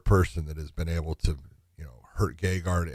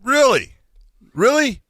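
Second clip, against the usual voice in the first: shrill disbelieving squeal; incredulous; 7 dB louder than usual. Real, not acted. Incredulous repeated reaction.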